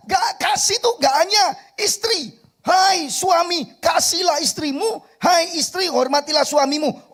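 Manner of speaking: loud, high, fervent preaching; full-force preaching. Acted. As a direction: preach it out to the congregation.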